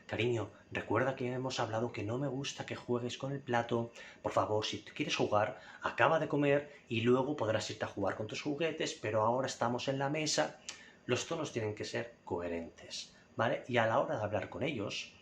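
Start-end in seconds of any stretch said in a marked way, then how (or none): 0.1-10.6 put-on patient, kind correction of a child; calm and gentle. Shown as a demonstration. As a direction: explain it to your kid calmly. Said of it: "con calma".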